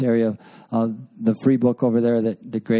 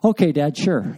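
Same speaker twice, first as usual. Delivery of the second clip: passive aggressive agreement; 4 semitones higher than usual. Retold or imitated. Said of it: "she was our passive aggressive one".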